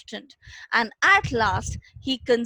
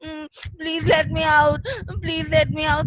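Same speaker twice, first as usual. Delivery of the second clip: imitating crying; 4 semitones higher than usual. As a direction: whimper it like the caged tiger. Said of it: "He was continuously crying".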